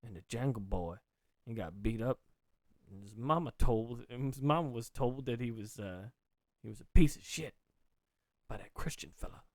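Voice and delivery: low New Orleans storyteller; New Orleans accent. Acted. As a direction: tell a sorry tale in mock New Orleans accent. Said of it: "Kathy Bates from The Water Boy".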